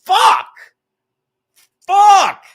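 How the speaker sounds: high, loud imitated cry; mock yell. Streamer mimicking someone's curse, high mock yell. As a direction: yelp it out in imitation.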